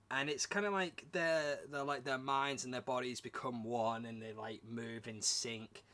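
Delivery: talking with a blocked nose. Real, not acted. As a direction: speak through a stuffy blocked nose. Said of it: "I need to blow my nose".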